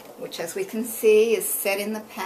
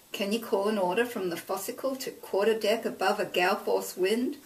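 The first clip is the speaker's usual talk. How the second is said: ordinary delivery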